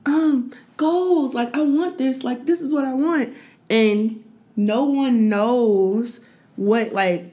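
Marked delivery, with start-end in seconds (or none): 0.1-3.3 pitched-up gushing follower; high mock fan. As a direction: swoon over it, mockingly. Imitating admiring followers.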